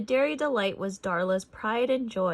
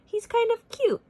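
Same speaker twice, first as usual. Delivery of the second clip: Patty's fond voice; 6 dB louder than usual. A narrator's reading. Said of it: "Patty agreed".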